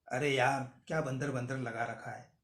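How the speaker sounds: loud mock outburst. Shown as a demonstration. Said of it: "जोर-जोर से यही dialogue बोलना".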